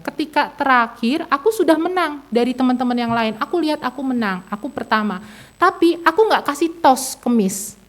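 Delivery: lightly imitated young child; halting child's retelling. Five-year-old tells mother about the game, lightly voiced halting child. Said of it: "dia menceritakan dengan terbata-bata".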